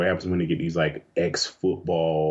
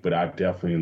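ordinary delivery

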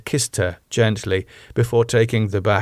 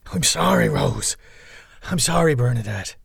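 contrite, higher-pitched apology; calm apology; 5 semitones higher than usual. Acted. Damo apologising to the women, calm. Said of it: "calmly and in more familiar tones".

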